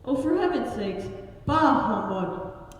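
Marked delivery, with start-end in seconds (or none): 1.5-2.7 Scrooge grumble. Acted. Scrooge's catchphrase.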